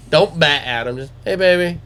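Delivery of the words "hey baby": raised-pitch pet greeting; imitating dad's sweet talk. Shown as a demonstration. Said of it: "Talk sweet to him".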